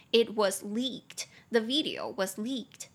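very slow, clear model sentence; slow model reading. Shown as a demonstration. Teacher reads the example to students, very slow. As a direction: read it word by word.

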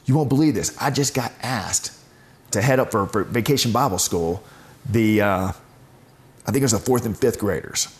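excited. Retold or imitated. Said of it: "she was so excited".

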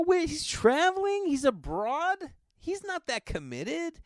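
very high, drawn-out questioning; mock incredulity. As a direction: feign shock to win her over. Retold mock disbelief about absent boyfriend.

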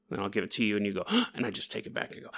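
mock gasping. Hogging shared oxygen tank.

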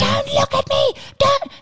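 high-pitched screaming tantrum; shrill little-kid meltdown; angry toddler yell. Retold or imitated. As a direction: imitate a furious small child screeching. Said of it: "He's yelling, like, angry, angry, angry".

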